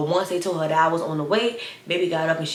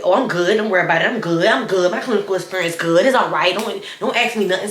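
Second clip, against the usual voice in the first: curt brush-off; 4 dB louder than usual. Retold or imitated. Girl brushing off the question.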